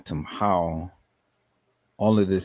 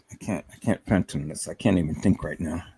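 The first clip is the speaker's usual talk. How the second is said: emotional; 5 semitones lower than usual. Real, not acted. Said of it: "way too emotional right now".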